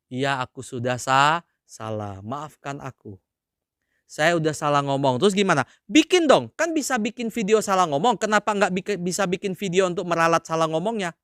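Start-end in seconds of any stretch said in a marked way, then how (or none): 0.1-5.2 humble apology. Acted. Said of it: "mestinya gimana?".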